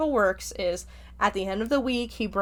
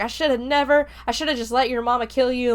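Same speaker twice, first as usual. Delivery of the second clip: imitating a grandpa's heated outburst; retold angry rant; 4 semitones higher, faster than usual. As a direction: spit it out as a betrayed grandfather. Furious grandpa rants at granddaughter.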